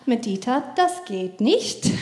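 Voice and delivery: a lightly voiced smiling, patient no; smiling calm no. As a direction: keep smiling and stay patient. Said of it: "jetzt lächle ich noch und sagen". (Mutter lächelt die Tochter geduldig an, ruhig und langsam)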